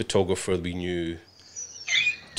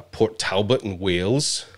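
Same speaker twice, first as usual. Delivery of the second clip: put-on lilting Welsh accent; slower than usual. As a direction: say it like a Welsh local. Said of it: "That was my Welsh accent".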